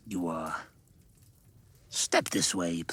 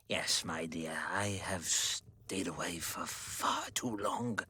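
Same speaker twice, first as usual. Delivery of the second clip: softly whispered to the niece; 6 semitones lower, 9 dB quieter than usual. Acted. Scrooge whispering to Fred's wife as he meets her. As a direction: hush it close, gently.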